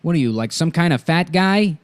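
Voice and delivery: lightly voiced movie impression; Buscemi. Host trying out an impression for co-hosts, tentative Buscemi.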